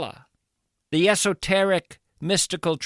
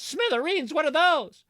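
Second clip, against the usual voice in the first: puzzled question; 10 semitones higher than usual. Acted. Acted baffled listener asks.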